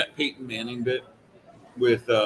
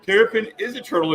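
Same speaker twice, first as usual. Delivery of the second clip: deadpan host; 8 semitones higher, 4 dB louder than usual. Retold or imitated. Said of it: "he goes".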